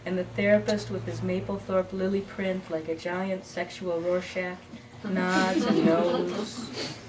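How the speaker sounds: measured narrative verse with line pauses; poem reading. Acted. Poet reading What Then Is Love, measured recital. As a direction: read it as a poem to a live audience. Reads her poem aloud.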